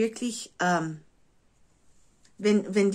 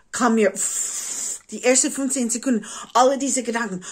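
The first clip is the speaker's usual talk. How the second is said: rushing, louder and higher; excited; 4 semitones higher, 4 dB louder than usual. Real, not acted. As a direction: tumble out the ideas fast. Excited rush of ideas.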